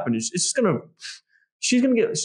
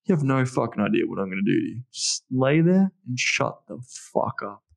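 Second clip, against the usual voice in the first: dominant command; 3 semitones lower than usual. Retold or imitated. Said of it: "I'm like".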